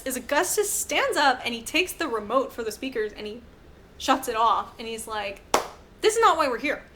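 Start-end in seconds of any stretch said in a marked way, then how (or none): 6.0-7.0 laughing. Real, not acted. Laughs while quoting.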